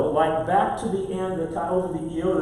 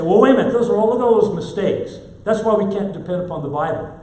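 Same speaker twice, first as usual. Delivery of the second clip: mock skeptic; 3 semitones higher, 5 dB louder, much faster than usual. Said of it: "a temptation with some to say".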